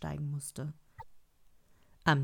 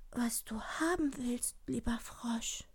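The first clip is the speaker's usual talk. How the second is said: high, soft, whispery princess; high hushed princess voice; eager young princess; 5 semitones higher, 6 dB quieter than usual. Acted. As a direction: plead sweetly in a small high voice. Princess figure pleads.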